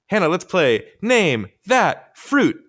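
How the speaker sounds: loud, high, drawn-out announcer call; game-show host. Pretend. Host springs a quiz on Hannah, game-show announcer.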